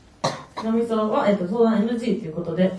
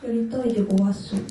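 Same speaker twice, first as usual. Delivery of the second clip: sumo wrestler speech. Acted. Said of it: "力士のイメージが".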